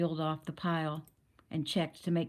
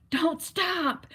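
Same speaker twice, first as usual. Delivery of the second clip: shouted much higher and louder; fierce yell; 12 semitones higher, 4 dB louder than usual. A narrator's reading. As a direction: yell it fiercely to keep everyone going. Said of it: "Gabe yelled fiercely".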